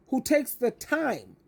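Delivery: "time" leaned on, slow and drawn out; slow down and press hard on "time"; stress on time. Shown as a demonstration. Advice coach to her audience, weighting the word "time" slowly. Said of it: "let's put emphasis on that word time".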